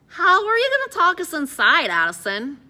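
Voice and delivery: high, loud, worried question; anxious questioning. A narrator's reading. Sweating Eddie nearing the guards with Addison, anxious. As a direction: demand the plan in nervous alarm.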